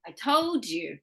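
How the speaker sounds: told with its d clearly heard before you; final D sounded. Shown as a demonstration. Teacher correcting the student, clear d ending on told. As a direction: finish told on a d, then say you. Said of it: "don't forget your da".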